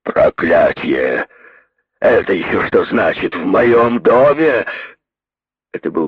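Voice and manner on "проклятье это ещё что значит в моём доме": loud, slow, savage bellow; furious loud voice. A narrator's reading. Brodie bursting in on them, furious roar. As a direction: roar it at the intruders. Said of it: "громкий голос ... свирепой силой".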